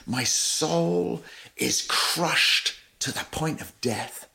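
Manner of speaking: slow, hushed, heavy with grief; anguished. Acted. Preacher voicing Jesus before the cross, slow anguished hush. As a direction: drag each word out as if crushed by sorrow.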